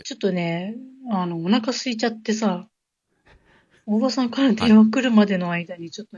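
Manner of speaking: talking while eating; words round a bite of fish sausage; mouth full. Real, not acted. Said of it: "ちょっと今食べ、食べながら喋ってた". (口に物を入れたまま)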